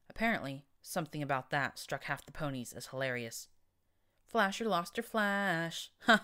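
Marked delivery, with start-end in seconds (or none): 4.3-6.2 slow, gleeful laughing jeer; roaring with glee. A narrator's reading. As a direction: cackle it out slowly in glee. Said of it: "roared in glee".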